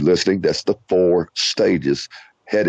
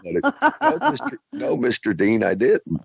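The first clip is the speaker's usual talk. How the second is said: put-on cute boy voice; 9 semitones higher than usual. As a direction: play the sweet kid politely denying. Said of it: "Oh, that was cute".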